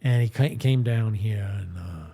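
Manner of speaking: light Southern Mississippi voice for Ransom Bash; Mississippi accent. Acted. Streamer narrating his Southern character, in a light Mississippi accent. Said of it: "he kinda talks like this".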